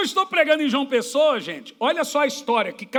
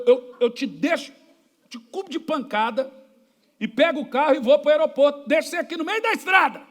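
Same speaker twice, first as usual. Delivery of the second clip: mock threat building; 2 semitones higher than usual. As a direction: threaten him back, rising as you go. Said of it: "Ô, falei". (ameaça retrucada, subindo aos poucos)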